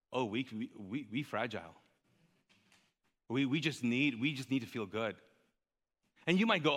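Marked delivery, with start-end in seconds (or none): 0.1-5.2 mock fragility. Mocking believers who feel persecuted.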